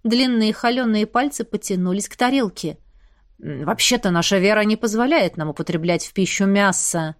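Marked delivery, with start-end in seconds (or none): 3.4-7.1 lower, snooty elf voice; haughty. Acted. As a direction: lecture her with lofty disdain. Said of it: "чванливо заявил мой сосед".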